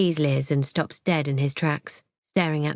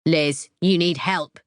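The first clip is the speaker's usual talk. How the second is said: shout; slower than usual. Acted. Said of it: "he shouts at her".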